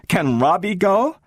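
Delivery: put-on high, eager child voice; small girl begging to go along; little girl Gloria. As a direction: ask like a hopeful little girl.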